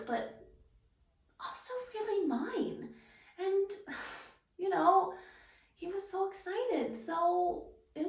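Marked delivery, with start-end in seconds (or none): 3.7-4.2 very quiet sigh; faint sigh mid-story; soft sigh. Acted. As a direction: let a small breath go. Pausing in the pregnancy story.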